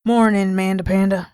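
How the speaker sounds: put-on cheery morning greeting, light Southern accent. Dad greets daughter Amanda after waking, light Southern accent. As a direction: greet her sweetly, a touch Southern. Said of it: "regular Southern accent".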